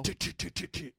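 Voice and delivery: rapid choppy "ch" sounds; loud, repeated skipping noise; imitated bouncing noise. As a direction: mimic a jet ski skipping on water. Imitating jet ski bouncing on water.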